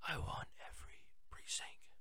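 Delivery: breathy imitation of the president's whisper, all air; mocking whisper. Host mocks the president's whispering with a whisper. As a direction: mimic his whisper to mock him. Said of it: "doing his whisper thing that he does".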